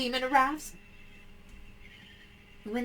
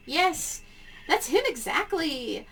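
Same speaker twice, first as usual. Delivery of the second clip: panicked caller; 3 semitones higher than usual. Acted. Caller explains urgently.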